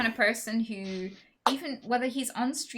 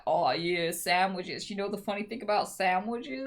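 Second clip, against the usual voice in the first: calm, measured counsellor voice; therapist voice. Retold or imitated. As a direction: muse about it like a patient therapist. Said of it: "Is that your therapist voice?".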